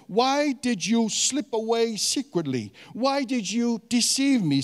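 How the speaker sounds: "Why did you" pitched high and punched; emphatic reading. Acted. Laban questioning Jacob's flight, emphatic reading. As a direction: lean hard on "secretly" and "deceive". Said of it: "gonna emphasize some of the words".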